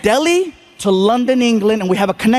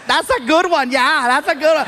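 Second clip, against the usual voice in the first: covering host; 6 semitones higher than usual. Retold or imitated. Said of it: "He says".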